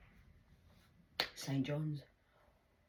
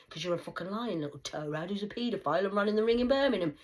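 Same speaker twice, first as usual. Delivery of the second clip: shouting, louder and louder; yelling abuse at an enemy; loud rant; 4 semitones higher, 11 dB louder than usual. Real, not acted. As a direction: rant it at full volume.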